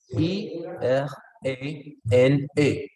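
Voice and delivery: letter by letter, no accent named; spelling without accent. Shown as a demonstration. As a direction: spell it out as bare separate letters. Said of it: "yo no puedo decir". (deletreo letra por letra, sin indicar acento)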